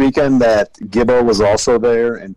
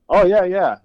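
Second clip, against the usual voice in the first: fake agreeing; 8 semitones higher, slower than usual. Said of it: "me being like".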